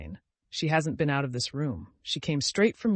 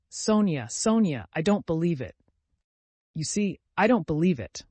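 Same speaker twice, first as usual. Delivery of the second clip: anguished; 3 semitones higher, 4 dB louder than usual. Acted. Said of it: "she cried".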